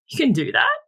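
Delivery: retold disbelief, lifted pitch; mildly incredulous question. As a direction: ask it in mock astonishment. Astonished kid discovering mums have hobbies.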